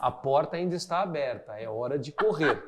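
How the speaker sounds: joking steward on the intercom; deadpan cabin announcement gag; funny flight attendant voice. Retold or imitated. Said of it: "ele tinha uma voz engraçada".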